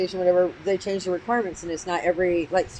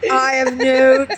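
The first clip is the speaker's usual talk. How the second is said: slow witchy voice; 4 semitones higher, 6 dB louder, much slower than usual. Pretend. Joking witchy line.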